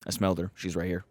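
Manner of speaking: loud calling dog-like dino; mock dino voice. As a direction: call out proudly like a rescue dog. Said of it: "And he's just like".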